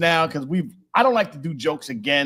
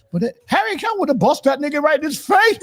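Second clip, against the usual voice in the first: laughing; 12 semitones higher, 4 dB louder than usual. Real, not acted. Excited laughing retelling.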